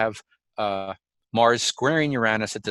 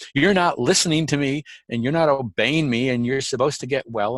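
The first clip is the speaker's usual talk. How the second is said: put-on yelling with a mild scolding tone; 3 semitones higher than usual. Retelling the wife yelling at the speaker after the fall: imitating someone yelling. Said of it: "she was yelling at me".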